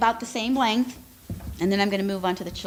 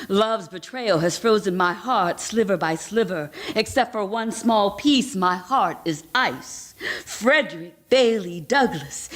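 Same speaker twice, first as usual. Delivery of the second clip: put-on German accent. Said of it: "my imitation of what I think somebody from Germany would sound like".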